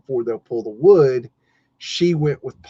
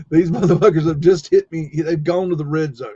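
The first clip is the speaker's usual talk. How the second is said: mock furious rant; 3 semitones higher, 4 dB louder than usual. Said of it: "I'm pissed".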